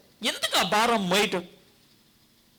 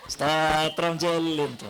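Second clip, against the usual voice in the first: mock pious; 4 semitones lower, slower than usual. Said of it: "అని".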